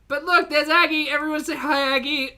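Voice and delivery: loud, high-pitched callout to viewers; rally everyone to greet her; excited announcing. Real, not acted. Pointing Aggie out to the viewers.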